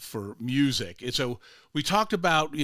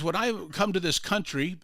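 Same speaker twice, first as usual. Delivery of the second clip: put-on immigrant's Hispanic accent, pitched higher; imitated Hispanic accent; 5 semitones higher than usual. Groundskeeper tells visitor his story, in imitated Hispanic accent. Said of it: "you could tell he was an immigrant".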